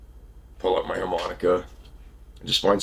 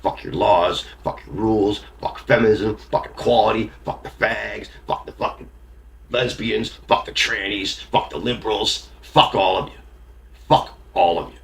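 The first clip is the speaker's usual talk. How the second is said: snarling punk. Real, not acted. Bitter rant at everyone.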